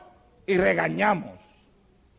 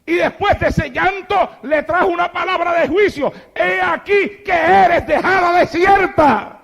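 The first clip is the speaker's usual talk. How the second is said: loud, higher pleading lament from the pulpit; lamenting cry; 6 semitones higher, 5 dB louder than usual. Acted. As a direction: cry out over Jerusalén in grief. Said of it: "lloraba y decía". (lamento a gritos)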